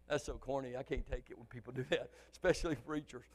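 soft, low, laughing remark; laughing aside. Real, not acted. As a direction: chuckle at your own corniness. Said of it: "laughing at own impression".

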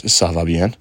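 "Ça va bien" in a beginner's French accent, nasal "bien" rising; French reply. Shown as a demonstration. Vlogger gives viewers the answer in beginner's French. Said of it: "And the answer to that is".

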